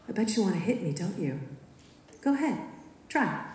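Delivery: Marnie voiced goading, going high on go ahead; taunting. A narrator's reading. Marnie taunts the narrator to hit her, mockingly. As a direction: bait her into throwing a punch.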